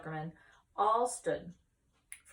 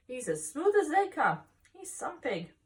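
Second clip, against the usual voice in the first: eager agreement; 9 semitones higher, 6 dB louder than usual. Acted. Lurvy agreeing about pig.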